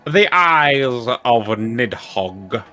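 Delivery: slow, grand quest-giver voice; solemn NPC voice. Acted. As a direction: read it like a solemn sage. Reads NPC dialogue aloud.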